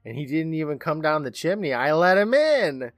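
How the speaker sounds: slow, lightly voiced little girl; sweetly slow child voice. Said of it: "Carrie smiles, saying".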